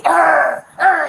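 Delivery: mock growling noise; imitated growl. Woman imitates the boy growling at the dog. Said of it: "he growling".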